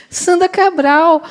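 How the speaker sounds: the friend suddenly realises who's on the phone; delighted recognition. Retold or imitated. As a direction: stretch the name out as it dawns on her.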